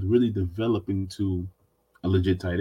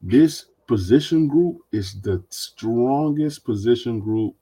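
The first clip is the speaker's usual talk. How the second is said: sarcastic. Real, not acted. Podcast host introduces the team's supposed strongest group, sarcastically. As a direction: draw it out with sarcastic pomp. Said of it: "I love your sarcasm".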